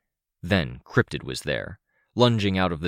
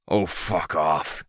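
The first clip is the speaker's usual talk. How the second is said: slow, hissing creature voice; drawn-out hissed dismissal; slower than usual. A narrator's reading. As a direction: hiss it out slowly in contempt. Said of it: "he hissed".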